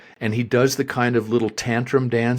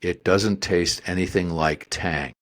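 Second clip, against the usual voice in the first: put-on slow, low, deliberate kid disdain; measured, bratty put-down; snotty entitled brat; 5 semitones lower, slower than usual. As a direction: imitate a snotty child's final verdict. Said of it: "with the snottiest of, of eight-year-old entitled brat".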